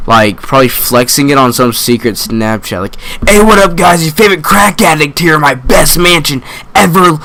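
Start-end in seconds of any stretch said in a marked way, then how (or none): 3.3-7.1 high, bubbly influencer voice; mock vlogger crack addict. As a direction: gush like a white girl on Snapchat. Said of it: "like every white girl".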